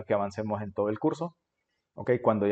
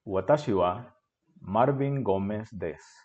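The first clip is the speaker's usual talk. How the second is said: fluent reading. Shown as a demonstration. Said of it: "la voy a leer fluido primero".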